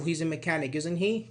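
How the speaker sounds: "isn't he" lifted as a question; rising tag intonation. Shown as a demonstration. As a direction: fall on the statement, then rise on "isn't he". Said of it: "we use rising".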